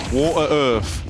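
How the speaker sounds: "Water, earth" with no T in "Water", F ending "earth"; British dropped T. Shown as a demonstration. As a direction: demonstrate "Water" with a glottal stop, "earth" as "urf". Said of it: "Water is water without the T".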